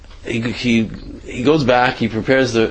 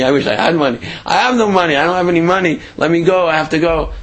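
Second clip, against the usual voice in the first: high pleading voice; desperate begging; 5 semitones higher, much faster than usual. Retold or imitated. Woman begging the mugger to release her, high and desperate.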